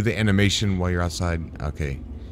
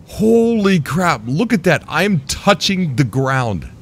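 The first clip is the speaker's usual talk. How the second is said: amazed; 6 semitones higher, slower than usual. Real, not acted. Flying ship too low.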